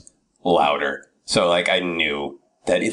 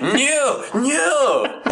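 mock shouted no. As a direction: bark a firm no at the tourist. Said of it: "And like".

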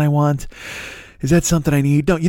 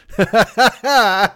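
cracks up at his joke; big laugh; 6 semitones higher than usual. Real, not acted. Laughing at own bit.

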